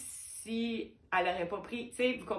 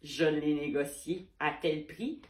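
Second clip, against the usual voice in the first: lower, slow, smug bragging voice; mock proud buyer; 6 semitones lower, slower than usual. Artist mocking a bargaining buyer, lower smug brag. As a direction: imitate a buyer showing off a bargain to friends. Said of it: "tu vas être tout fier de dire à tes amis".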